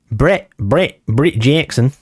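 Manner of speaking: rough attempt at an Australian accent. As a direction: say the name like a self-mocking Australian. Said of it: "my attempt at an Australian accent".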